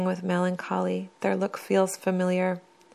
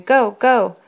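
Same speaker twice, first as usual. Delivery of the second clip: loud, high cheering shout; 4 semitones higher, 9 dB louder than usual. A narrator's reading. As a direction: yell it like a fan ringside. Boxers cheering a fight.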